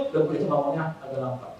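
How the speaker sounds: soft, slow gentle speech. Shown as a demonstration. Preacher showing his old idea of gentle speech, soft and slow. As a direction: ease the words out slowly and softly. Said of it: "saya coba jadi pelan ngomongnya".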